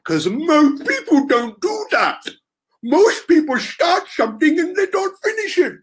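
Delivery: odd put-on voice. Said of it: "I don't know why I'm talking like this".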